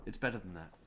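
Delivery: quiet aside. Shown as a demonstration. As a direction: murmur it to yourself.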